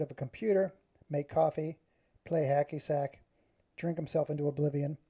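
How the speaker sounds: reading a short story aloud to the crowd; reading his own short story aloud to the crowd; story narration. Acted. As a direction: tell it like a dramatic story.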